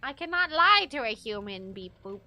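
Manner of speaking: lightly voiced robot, fading low; a hint of a beeping toy robot. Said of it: "A robot would be like".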